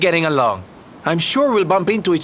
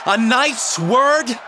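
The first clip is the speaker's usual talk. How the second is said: prompting; 6 semitones higher, much slower than usual. Acted. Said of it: "Repeat after me now".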